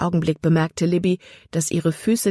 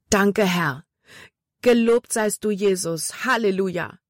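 grateful prayer; 3 semitones higher than usual. A narrator's reading. Jordan thanks God after rescue.

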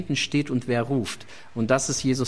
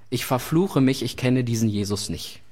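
low, stubborn denial that drops lower; insistent denial; 5 semitones lower than usual. Acted. Peter denying Jesus a third time, low insistent denial. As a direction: swear it off, low and final.

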